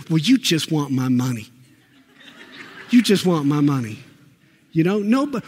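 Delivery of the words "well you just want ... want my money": chuckling through an imitated grumble at the store manager; half-laughing mock accusation; laughing mock complaint. Preacher mimics a shopper accusing the store manager, laughing. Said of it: "go to the store manager and say".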